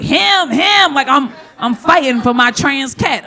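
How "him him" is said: insistent correction. Retold or imitated. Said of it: "and I'm like".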